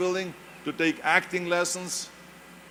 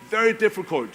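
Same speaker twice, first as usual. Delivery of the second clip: Very difficult hit higher and louder; stress on very; 4 semitones higher, 4 dB louder than usual. Real, not acted. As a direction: punch the word Very, then fall. Repeats for emphasis.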